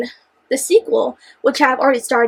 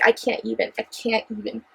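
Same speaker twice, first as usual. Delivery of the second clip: mock speechless; 4 semitones lower, 9 dB quieter than usual. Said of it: "me going".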